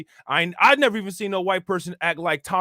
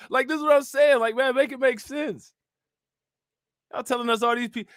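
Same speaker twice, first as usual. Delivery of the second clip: exasperated; 6 semitones higher than usual. Real, not acted. Exasperated rant at white people.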